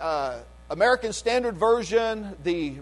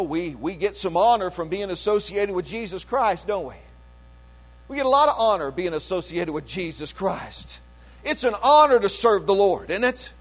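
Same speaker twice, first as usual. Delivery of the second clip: ordinary talk, nothing marked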